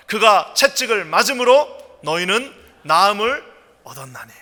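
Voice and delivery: loud, slow, measured recitation; declaimed Bible reading; congregational scripture reading. Real, not acted. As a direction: lead everyone through the verse phrase by phrase. Leads congregation reading scripture aloud.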